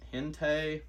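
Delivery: Hentei said as a careful guess at the title; tentative pronunciation. Shown as a demonstration. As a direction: sound out Hentei, starting on an H. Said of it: "I feel like that's pronounced".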